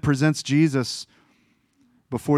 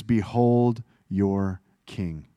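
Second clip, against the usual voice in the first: Pilate presenting; 4 semitones lower, much slower than usual. Retold or imitated. Pilate presents Jesus to crowd.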